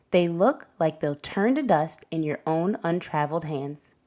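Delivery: gentle, measured picture-book narration; reading to children. A narrator's reading. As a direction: storytime read-aloud voice. Reads picture book to class.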